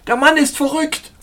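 high-pitched, loud alarm; fervent scream. A narrator's reading. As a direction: cry out to be rescued. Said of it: "schrie er inbrünstig".

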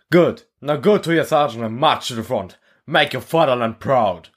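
stern instructor. Acted. Instructor dismissing recruits.

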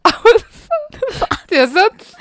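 high, laughter-choked voice; cracking up mid-line. Real, not acted. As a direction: keep breaking into laughter. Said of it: "ich hab einen Lachflash". (immer wieder vor Lachen prustend)

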